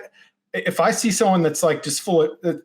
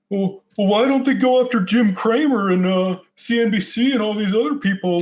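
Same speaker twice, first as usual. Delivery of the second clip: higher-pitched football coach impression; Coach Ditka voice; 7 semitones higher than usual. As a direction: play it like a sideline coach. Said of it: "was that a Coach Ditka voice that you were doing".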